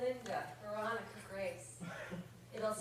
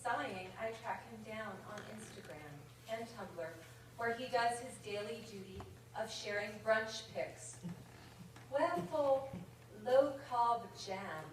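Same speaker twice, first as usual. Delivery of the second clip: put-on British accent. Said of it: "the accent that is about to ensue".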